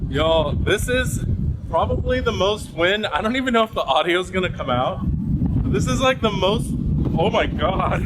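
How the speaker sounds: shouting over wind. Real, not acted. Filming in howling wind on deck.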